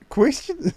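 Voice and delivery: "Question" pitched high, rising at the end; questioning upward lilt. Shown as a demonstration. Copying the Australian lesson, "Question" rising high. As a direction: swing "Question" up like an Australian query. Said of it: "everything sounds like a question".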